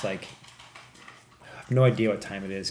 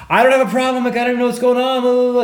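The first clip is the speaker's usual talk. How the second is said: very high, loud frantic yelling; mock-terrified shouted denial; re-enacted panicked protest; 14 semitones higher, 9 dB louder, much faster than usual. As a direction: protest desperately, dissolving into gibberish. Retells panicked protest to the cop.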